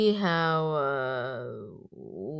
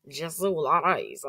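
mock Russian reading of the name; Russian accent; 3 dB louder than usual. Vlogger trying out languages, playful Russian accent.

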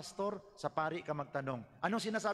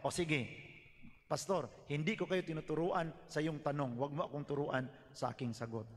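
calm with a smile; 3 semitones lower than usual. Shown as a demonstration. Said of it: "Medyo impronto tayo pero nakasmile".

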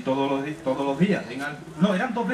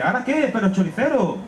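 scolding butcher; 4 semitones higher than usual. Acted. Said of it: "Tomás le dice".

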